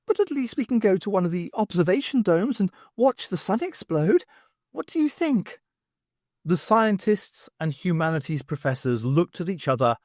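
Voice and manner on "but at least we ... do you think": higher alien voice, calm; lightly voiced alien. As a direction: state it like a strange being. Alien cheerful offer.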